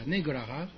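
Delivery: 尼格拉哈 in one smooth glide, 哈 rising. Shown as a demonstration. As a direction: run 尼格拉哈 together and lift 哈. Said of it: "要很顺".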